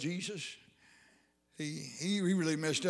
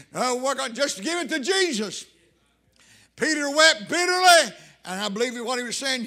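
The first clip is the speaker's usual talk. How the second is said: impassioned revival sermon with loud peaks; fervent preaching; 3 semitones higher, 3 dB louder than usual. Real, not acted. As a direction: drive the message home to the congregation. Preacher at full force.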